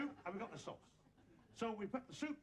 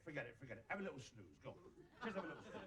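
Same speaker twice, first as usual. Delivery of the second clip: soft, lower coaxing toward a snooze; soothing hush; 5 semitones lower, 7 dB quieter than usual. Acted. Cook coaxing the animal to take a snooze, softly. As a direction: lull them gently to sleep.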